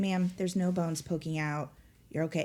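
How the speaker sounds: ordinary talk, nothing marked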